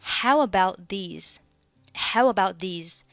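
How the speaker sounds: "about these" with the t of "about" unreleased; silent final t. Shown as a demonstration. Teacher modelling the phrase, "about" without its final t. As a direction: hold back the t in "about" before "these". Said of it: "about末尾是不发音的".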